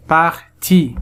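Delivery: "Parti" as two separate syllables, par, ti. Shown as a demonstration. Teacher adding the second syllable, "Parti" said in two parts. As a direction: split "Parti" cleanly after par. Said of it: "Deuxième syllabe".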